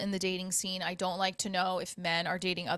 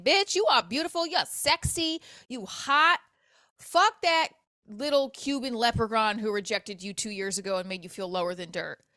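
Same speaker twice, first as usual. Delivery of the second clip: hype self-talk. Pretend. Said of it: "myself and saying".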